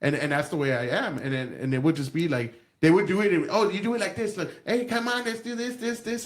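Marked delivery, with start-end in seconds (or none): 3.5-6.2 mock bossy principal. Teacher imitating a principal who took over his class, mock bossy. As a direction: lightly voice the meddling principal.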